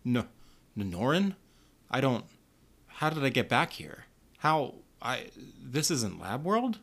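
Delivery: halting, dazed, lightly voiced; confused stammer. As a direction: stumble through it, lost and bewildered. Dazed man waking, confused.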